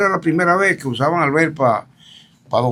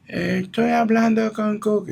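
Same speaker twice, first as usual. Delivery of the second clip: quoting foreign woman; 10 semitones higher than usual. Retold or imitated. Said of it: "una voz femenina".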